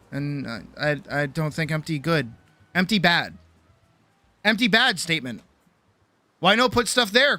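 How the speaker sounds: caveman talk. Retold or imitated. Mock caveman logic about empty shelf.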